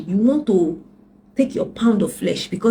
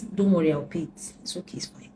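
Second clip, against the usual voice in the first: soothing give-in; 6 dB quieter than usual. Retold or imitated. Calmly yielding to the ex.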